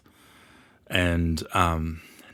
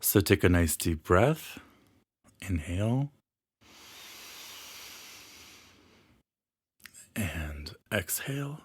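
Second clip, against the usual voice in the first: guided meditation; 3 dB quieter than usual. Acted. Healer leads listeners into an imagined library, guided meditation. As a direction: ease the listener into relaxation, phrase by phrase.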